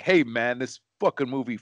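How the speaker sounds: mock outrage at a bad movie; angry customer. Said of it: "and he's like".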